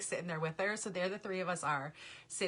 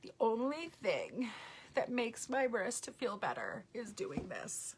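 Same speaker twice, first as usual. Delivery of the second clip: imitating child whisper; 4 semitones higher, slower than usual. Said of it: "she's like".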